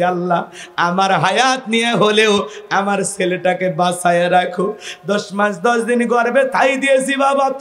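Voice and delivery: wailing, sing-song lament of a hurt mother; a grieving mother's chanted complaint; mother's tearful plea. Acted. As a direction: plead with your son through tears, rising to cries. Mother pleads with ungrateful son.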